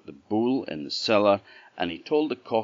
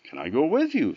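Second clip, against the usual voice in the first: bull voice; 7 semitones higher, 4 dB louder, faster than usual. Acted. Bull asks.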